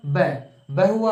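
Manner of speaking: slow, drawn-out ब sound; slowly sounding out ब like a teacher; sounding out the letter. Shown as a demonstration. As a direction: stretch out ब, ब for the class. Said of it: "तो पहला अक्षर क्या हुआ".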